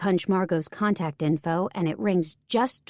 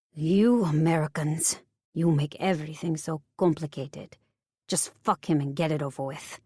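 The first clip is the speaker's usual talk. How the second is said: put-on French accent; 2 semitones lower than usual. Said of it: "Her French accent".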